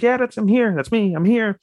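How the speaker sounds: high, overcome retold voice; imitated emotional reassurance. Lover at bedside to waking girl, high emotional reassurance.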